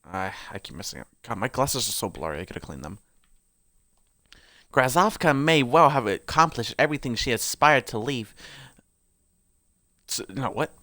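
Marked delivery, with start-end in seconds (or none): 4.7-8.3 put-on lore read aloud in an amateur British accent.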